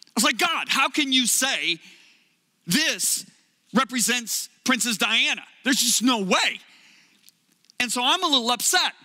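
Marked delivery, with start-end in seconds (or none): 0.4-6.6 raised, slow, pleading protest to God; retold angry prayer, voice pitched up. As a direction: push back at God in disbelief. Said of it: "getting angry in my hotel room".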